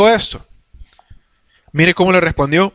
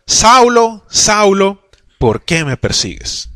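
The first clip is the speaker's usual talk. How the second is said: voice of the Lord; much slower than usual. Acted. Voz del Señor llamando a Pablo.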